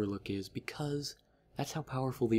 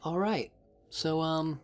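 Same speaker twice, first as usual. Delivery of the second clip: mock menacing Jack; 6 semitones higher than usual. Jack's threat in recap.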